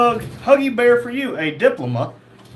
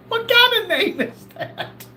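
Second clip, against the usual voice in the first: high, slow, disbelieving; can't believe that name; incredulous; 13 semitones higher, slower than usual. Real, not acted. Host reacts to a viewer's username, incredulous.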